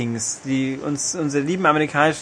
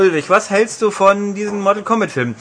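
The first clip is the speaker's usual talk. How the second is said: talking to himself; 6 semitones higher, 5 dB louder than usual. Pretend. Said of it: "ich werde mit mir selber reden".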